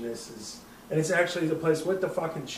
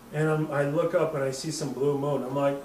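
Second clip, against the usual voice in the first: ordinary talk, nothing marked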